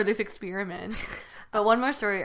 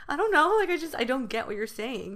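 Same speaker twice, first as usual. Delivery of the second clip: exasperated plea; 5 semitones higher than usual. Retold or imitated. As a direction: plead like a kid who's lost. Child pleading with angry mother.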